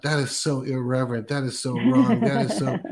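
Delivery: mildly indignant retold thought; building mock disapproval, pitch climbing; offended. Listener hearing God called Daddy, mildly offended. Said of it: "I was really kind of offended".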